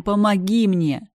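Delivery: calling out loud and high, panicked; desperate cry for help. A narrator's reading. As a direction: scream their names, begging for rescue. Victim screaming for help.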